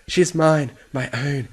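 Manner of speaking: slowing to a drawn-out possessive croon; cling to it greedily. Acted. Possessive clutching of the bunny.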